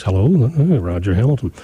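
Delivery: lightly put-on suave radio host; a hint of a polished Seattle psychiatrist; Frasier Crane voice. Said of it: "I do my Fraser Crane Seattle voice".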